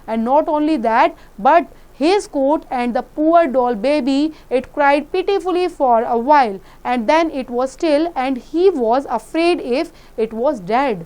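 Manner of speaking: put-on slow, deliberate read-aloud for children; slow story reading. A narrator's reading. Teacher reading the story aloud slowly to the class. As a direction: read each word out slowly and clearly.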